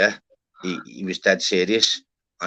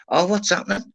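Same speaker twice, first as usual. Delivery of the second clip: higher, bright mock welcome; cheery greeting; 9 semitones higher than usual. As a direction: greet a mate who just popped in. Greeting someone who pops in.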